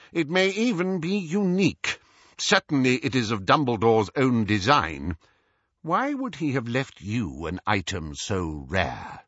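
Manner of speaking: Scrimgeour questioning. Acted. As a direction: probe with measured, formal curiosity.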